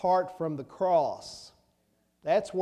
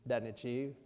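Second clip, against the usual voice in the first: ordinary talk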